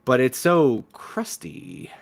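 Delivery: slow, whispered disgust. Acted. Guest whispering to the host about the crusty bathroom. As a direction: whisper it like you can barely stand it. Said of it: "Don't be so dramatic".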